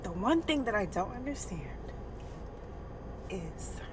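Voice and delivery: real grief catching in the throat; crying. Real, not acted. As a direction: push the line out while fighting back crying. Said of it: "ooh, I'm about to cry".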